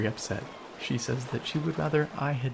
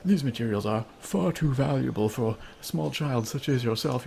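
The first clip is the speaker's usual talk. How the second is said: stern NPC voice; 5 dB louder than usual. Retold or imitated. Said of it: "We didn't find enough".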